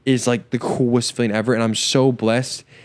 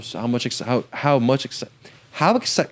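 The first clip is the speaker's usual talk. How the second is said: stuttering on the words; catching on repeated starts. Real, not acted. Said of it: "I have a stutter".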